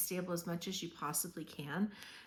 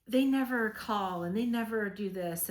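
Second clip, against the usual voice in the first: mock complaining; 3 semitones higher, 5 dB louder than usual. Mimics negative commenters' complaints.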